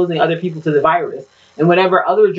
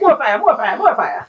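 high, Jamaican-style more fire; playful Jamaican patois cry of more fire; dancehall hype shout; 7 semitones higher than usual. Pretend. Dancehall ad-lib.

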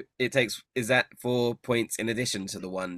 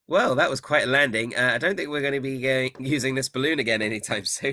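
Agden's voice; 3 semitones higher, 4 dB louder than usual. Acted.

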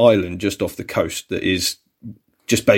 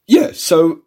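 voice went high-pitched; 7 semitones higher, 4 dB louder than usual. Real, not acted. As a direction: voice jumps up high. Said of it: "my voice went really high-pitched".

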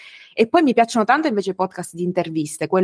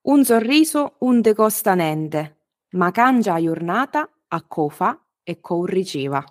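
motto spoken in Sicilian dialect; slower than usual. Shown as a demonstration. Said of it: "adesso in siciliano".

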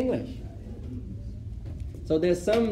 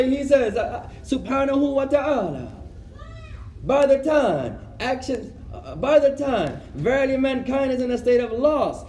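lightly voiced sermon recitation; mock scholar; 6 semitones higher than usual. Imitating a scholar quoting Quran in English.

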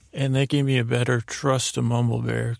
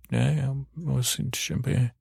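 slow, unintelligible mumbling; Mumble Bear; slower than usual. Acted. Bear explains the unwound watch, mumbling. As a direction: blur the words into slow gibberish. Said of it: "I don't know what Mumble Bear said".

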